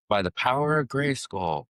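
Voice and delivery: slow, lightly proclaimed hero cry; a hint of the cartoon hero's call; dad jokingly waking his son with a cartoon cry, lightly heroic; He-Man battle cry. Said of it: "It's from He-Man".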